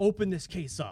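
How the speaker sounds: shouting. Retelling being pulled over, quoting the cop yelling over at them. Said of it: "he yells over and he goes".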